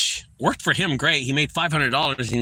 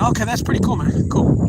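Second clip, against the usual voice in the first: higher, louder breezy approval; retelling a reply to his son, a keen higher "okay, cool"; mock excited okay; 9 semitones higher, 6 dB louder than usual. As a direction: toss off an eager "cool, man". Retold reply to son's news.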